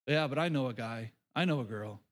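mock objector, low and trailing down; a low-voiced skeptic's comeback; doubtful objection. Congregant struggling with grace for all, doubtful objection.

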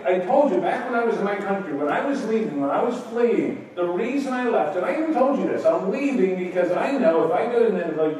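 preacher voicing Jonah griping at God; petulant Jonah. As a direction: whine it like a sulking prophet. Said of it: "So his response to God is".

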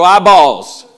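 loud drawn-out call; call and response shout. Shown as a demonstration. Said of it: "when I say eyeballs, you say click".

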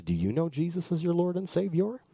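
put-on old preacher's question; old pastor. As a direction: pose it solemnly as an elderly preacher. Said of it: "this guy looks at him and says".

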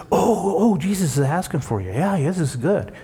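hammed-up helpful enthusiasm; mock eagerness. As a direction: play the fickle crowd suddenly eager to help. Acts out suddenly fawning crowd.

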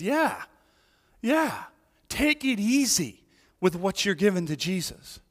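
dismissive. Acted. Voicing the disciples' dismissive objection.

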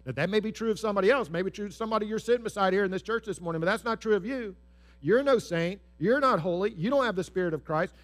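a sneering accuser, pushing hard; accusing Satan. Acted. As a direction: hammer down their worth. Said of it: "Satan is certainly gonna whisper in our ear and say".

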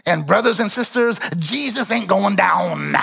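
a light take on a preacher's rising sermon close, slowing at the end; old-school Pentecostal preacher. Retold or imitated. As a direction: mildly imitate an old preacher's big finish. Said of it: "That's exactly how he said it".

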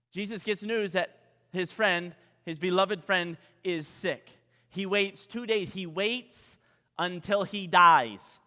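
normal talking voice

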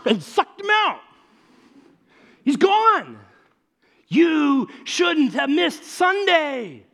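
high and loud, tumbling over the news; can't contain the story of the exorcism; excited shouting friend. Acted. A friend tells Todd what he missed, excitedly shouting.

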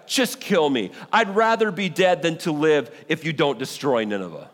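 mildly indignant acted protest to God; angry complaint. Preacher as Jonah protesting to God about Nineveh, mildly angry. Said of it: "Now he's angry".

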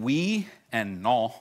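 light joking French accent. Shown as a demonstration. Pastor who failed French jokes with congregation, French accent. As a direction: show off a token French accent. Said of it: "hear that French accent?".

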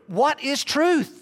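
slow, sincere, longing question; earnest wondering; sincere searching. Shown as a demonstration. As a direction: ask it as if truly longing to know. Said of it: "like, sincere?".

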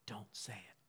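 hushed whispered warning; soft, breath-only whisper of caution; little inner voice. Acted. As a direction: whisper it like a voice inside the head. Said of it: "you hear this little voice".

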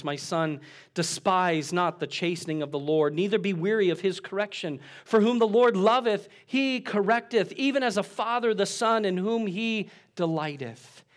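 solemn KJV recitation; scripture reading. Real, not acted. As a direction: read the verse with building fervour. Quoting Proverbs scripture.

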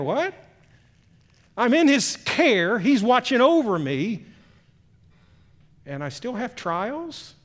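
mock disbelief, rising questions; incredulous believer. Believer questioning why trials still come, incredulous. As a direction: protest in puzzled surprise, stretching the words.

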